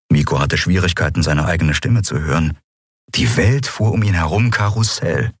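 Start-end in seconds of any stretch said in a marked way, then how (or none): none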